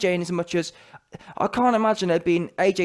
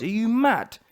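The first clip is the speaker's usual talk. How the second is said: ordinary talk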